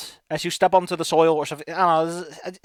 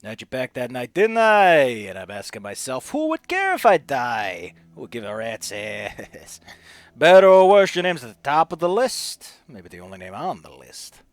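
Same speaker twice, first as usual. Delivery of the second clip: weary dying Sam; 8 semitones lower than usual. Acted. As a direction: trail down into a hushed, resigned testament. Voices Sam's recorded last message.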